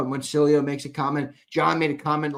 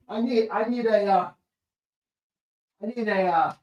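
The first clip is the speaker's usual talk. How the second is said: yawning; 5 semitones higher than usual. Real, not acted. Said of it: "I'm yawning".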